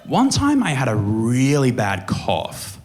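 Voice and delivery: mum offering a helpful idea; lightly voiced mum; mum's voice. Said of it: "she was like".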